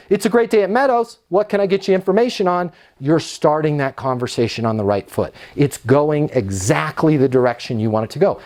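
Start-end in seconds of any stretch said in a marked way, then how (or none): 0.1-2.7 bright quick answer as a leasing agent; upbeat phone greeting. Shown as a demonstration. Leasing agent answering the phone, upbeat and quick. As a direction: greet the caller cheerfully and fast. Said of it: "in a more skillful way".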